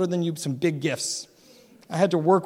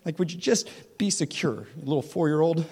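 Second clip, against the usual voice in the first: pleading dad; 4 semitones higher than usual. Retold or imitated. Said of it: "trying to express to him".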